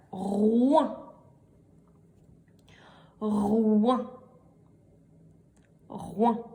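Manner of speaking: "roin" drawn out, its R set apart; dictated syllable. Shown as a demonstration. Teacher dictating a syllable three times, "roin" sounded out. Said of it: "je vais vous les répéter trois fois".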